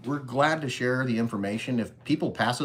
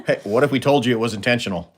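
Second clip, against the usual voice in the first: louder, laughing through it; 7 dB louder, faster than usual. Real, not acted. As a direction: joke while laughing. Joking reply to viewer.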